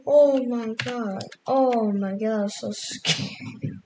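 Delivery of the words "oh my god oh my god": shaken exclaim. Real, not acted. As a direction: let the fright spill out. Still shaken from scare.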